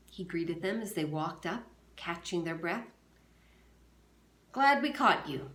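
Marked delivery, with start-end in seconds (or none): 4.5-5.5 calling out. Acted. Men arriving catching their breath.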